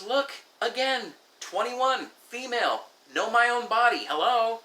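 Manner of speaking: high-pitched know-it-all, word by word; mock exasperated. Young woman insisting she knows her body, mock exasperated.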